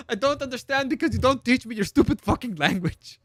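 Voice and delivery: hammed-up furious yell; high, loud mock outburst; Frenchie. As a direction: shout in exaggerated exasperation, cracking up. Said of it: "the speaker's natural reaction is".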